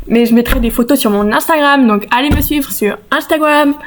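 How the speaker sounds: lightly put-on English accent; French with a light English accent. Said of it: "Pourquoi je prends un accent anglais?". (accent anglais léger)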